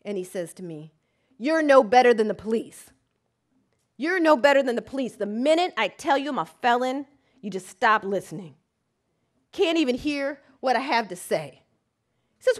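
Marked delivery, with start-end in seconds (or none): 1.4-11.6 loud, furious accusation; enraged client. Retold or imitated. Client berating his lawyer, loud and furious. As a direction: hammer each line in anger. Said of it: "he becomes enraged".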